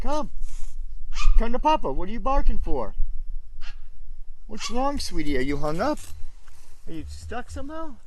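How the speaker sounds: high, loud call to a stuck dog. Real, not acted. Monk calls his chihuahua stuck behind the fence, high coaxing voice. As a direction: coax the little dog over, high and bright.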